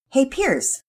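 put-on child's voice calling high and loud across the house. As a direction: shout it from another room. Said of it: "called out from the bathroom".

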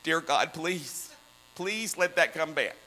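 a small worried prayer under the breath; softly begging dear God; hushed anxious prayer. Retold or imitated. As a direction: drop to a near-whisper, pleading with God. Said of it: "I walk away and I go".

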